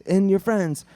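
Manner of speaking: held-back scream of a pursuer; mock screaming. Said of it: "And the guy's screaming".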